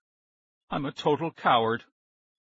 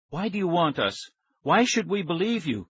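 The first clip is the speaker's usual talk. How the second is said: high, suspicious questioning; challenging; 7 semitones higher than usual. A narrator's reading. Nicky doubting the stranger, challenging. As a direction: push back with raised pitch.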